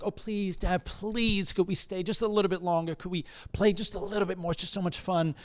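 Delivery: high, quick begging to stay; pleading child. Acted. Child to dad at a friend's house, pleading. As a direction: plead like a kid working on a parent.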